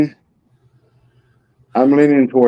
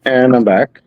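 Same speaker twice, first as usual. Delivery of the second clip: louder repeat; 2 semitones higher, 4 dB louder than usual. Real, not acted. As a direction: say it again, a bit louder. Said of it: "What's that?".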